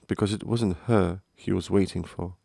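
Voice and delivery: plain reading voice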